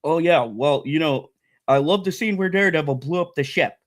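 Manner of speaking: mock the clueless fans; mocking moron voice. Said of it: "morons out there that are like".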